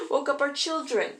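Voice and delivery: loud, high-pitched telling-off; acted angry yell. A narrator's reading. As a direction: yell it as an indignant mother. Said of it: "Kushina yelled out".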